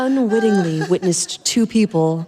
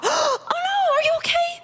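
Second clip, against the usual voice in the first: shocked concern; faster than usual. A narrator's reading. She fears he is ill, high shocked worry. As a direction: gasp out your worry for him. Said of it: "Her eyes widened in shock".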